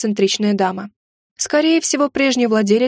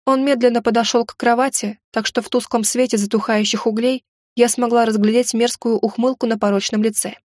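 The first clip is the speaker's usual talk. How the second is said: ordinary delivery, nothing marked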